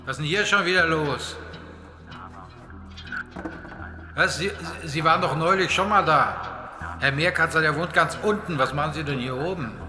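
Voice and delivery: low, loud scolding; gruff scolding. Acted.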